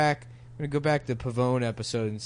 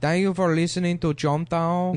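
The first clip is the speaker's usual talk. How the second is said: mock Italian-Canadian voice; 4 semitones higher than usual. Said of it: "I talk like this on the show".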